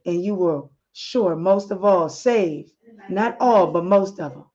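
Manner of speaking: calm voice. Acted. Husband calms his upset wife over the phone, calm and reassuring. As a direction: soothe her gently like a loving husband. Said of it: "In a calm voice".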